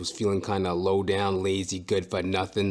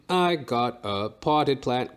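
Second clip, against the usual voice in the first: slow drawn-out; 2 semitones higher, slower than usual. Shown as a demonstration. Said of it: "repeated in different voices".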